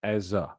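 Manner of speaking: Eza said "EH-zuh"; name pronunciation. Shown as a demonstration. Chat asks about Eza, he says "EH-zuh". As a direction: say Eza with a soft "uh" ending. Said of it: "I will say Eza".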